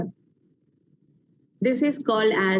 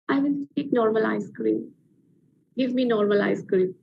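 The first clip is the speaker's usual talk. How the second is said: slow, peaceful voice; 3 semitones lower than usual. Retold or imitated. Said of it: "says in a very slow voice, in a very peaceful voice".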